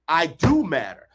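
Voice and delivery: firm, emphatic affirmations; affirmation with energy. Shown as a demonstration. Coach demonstrating affirmations said with energy and emotion, firm. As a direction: declare each one like you mean it. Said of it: "And that's how you say it".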